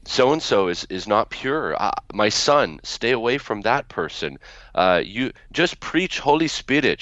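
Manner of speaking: put-on a mild Arabic accent, grandmother warning her son; broken English. Grandmother warning her son about a preacher, lightly Arabic-accented broken English. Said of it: "in her broken English".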